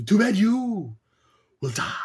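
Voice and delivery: slow mock-menacing villain; Sindel's line again. Mocking Sindel's cheesy threat to Kitana, slow hammy. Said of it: "That line was horrible".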